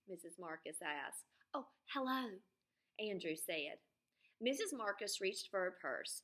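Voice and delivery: lively read-aloud story voice; storybook narration for young listeners; reading to children. Acted. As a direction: tell it to a class of kids. Reads Freckle Juice aloud to class.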